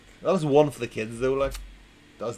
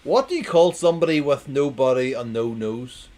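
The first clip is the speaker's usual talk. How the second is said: loud, bright question to the crowd; announcing the riddle loudly; loud joke setup; 5 dB louder than usual. Shown as a demonstration. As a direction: belt out the setup. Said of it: "I'm gonna read it again".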